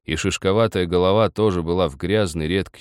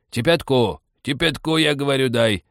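irritated, higher-pitched demand; angry repetition; 7 semitones higher, 3 dB louder than usual. A narrator's reading. Old man repeats himself to baffled Nikita, crossly. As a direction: insist crossly, word by word. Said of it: "сердито повторил старик".

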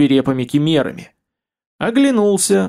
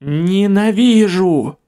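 slow, higher, growing hateful hiss; clicking alien voice; 4 semitones higher, much slower than usual. Acted. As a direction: draw it out with rising fury. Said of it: "повторил голос, крепчая с каждым мгновением".

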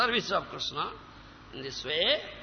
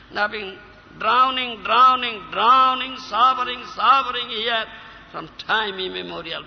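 louder pleading prayer that repeats its words; tearful prayer; 3 semitones higher, 5 dB louder than usual. Acted. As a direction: beg Krishna, pressing on "drowning". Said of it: "You will cry and say this".

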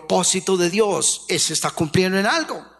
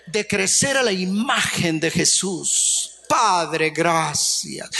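grateful son; 4 semitones lower than usual. Retold or imitated. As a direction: thank the father humbly, in a lower voice. Ideal son thanking his father.

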